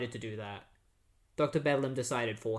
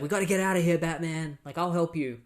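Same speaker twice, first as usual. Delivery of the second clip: imitated urgency; 4 semitones higher, 4 dB louder, faster than usual. Gordon urging Batman to flee.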